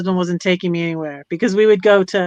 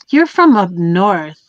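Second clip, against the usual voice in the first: retold Southern locals; 4 dB louder, slower than usual. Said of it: "Or they're like".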